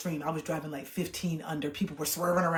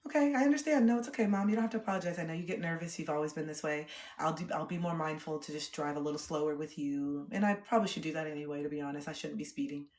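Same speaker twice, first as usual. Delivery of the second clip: calm understanding. Retold or imitated. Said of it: "I was just like".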